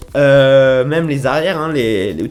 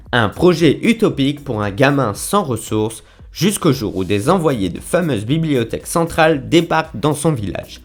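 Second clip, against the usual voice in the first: measured storytelling read with emphatic phrase openings; synopsis read aloud. Acted. Vlogger reading the manga's summary to viewers, declaimed blurb reading. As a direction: read it out like a back-cover blurb, each phrase set apart.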